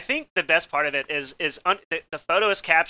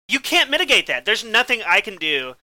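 exasperated retelling; 2 semitones higher than usual. Retold or imitated.

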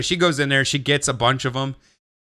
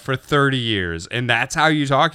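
incredulous retort; 4 semitones higher than usual. Retold or imitated. Seller questioning the buyer's accent after thirty years, incredulous. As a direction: act baffled by what you just heard.

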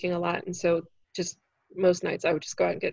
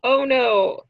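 shocked face; 7 dB louder, slower than usual. Retold or imitated. Comic reacting to a boss's indecent offer, loud and shocked. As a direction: recoil in disbelief, then a disgusted ugh. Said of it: "so my face is like".

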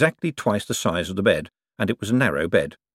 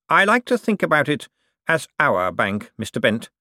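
lordly, magnanimous Cosmo, pitched up; generous; 6 semitones higher than usual. A narrator's reading. Cosmo offers Bent a share in the bank, generously. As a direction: bestow it as if a favour. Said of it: "said Cosmo generously".

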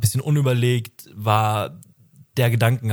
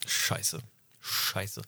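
mock dismay; 3 semitones lower, 12 dB quieter than usual. Dismay at being old soon.

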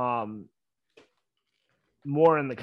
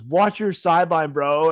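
retold taunt; 2 semitones higher, 7 dB louder than usual. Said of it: "and he goes".

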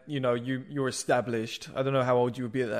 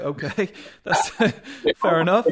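chuckling through the words, louder at the end; laughing it off; 5 semitones higher, 6 dB louder than usual. Real, not acted. Laughing at the trainer's insult, amused. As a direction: laugh it off after a harsh put-down.

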